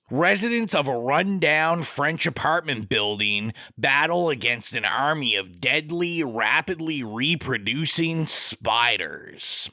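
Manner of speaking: measured announcer-style film synopsis; synopsis read-aloud. Acted. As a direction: read it out like a movie blurb, slowing toward the end.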